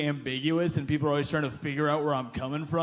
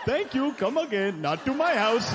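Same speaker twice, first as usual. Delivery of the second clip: mock Indian dad; 6 semitones higher than usual. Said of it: "I'll try one".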